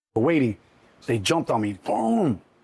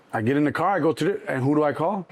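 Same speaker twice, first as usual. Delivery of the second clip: usual speaking voice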